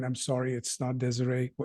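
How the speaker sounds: ordinary delivery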